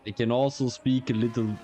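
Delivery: badly faked Dutch accent. Shown as a demonstration. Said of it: "the worst Dutch accent ever".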